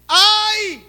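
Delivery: high, loud wailing "ai"; anguished cry. Acted. Preacher voicing Isaiah's cry before God. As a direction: cry out broken.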